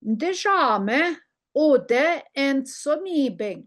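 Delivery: Ndishame ode en sonibing, each syllable spelled out slowly; Ojibwe phrase slowly modelled. Shown as a demonstration. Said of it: "teacher models the phrase".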